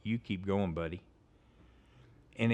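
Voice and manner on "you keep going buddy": inner voice. Retold or imitated. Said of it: "God hit me like a brick".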